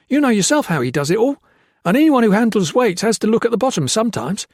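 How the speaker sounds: high, loud and fast, tumbling out the words; babbling. Acted. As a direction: babble it all out in a desperate rush.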